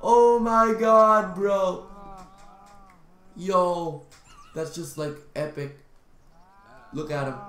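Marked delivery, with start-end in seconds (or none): 0.0-1.9 high, loud, laughing-fit excitement; amused exclamation. Real, not acted. Player amazed at how he runs, delighted. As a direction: cry out in delighted disbelief. Amused by his own running.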